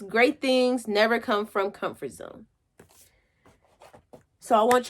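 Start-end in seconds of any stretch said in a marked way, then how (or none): 0.0-2.5 quote reading. Shown as a demonstration. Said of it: "It says".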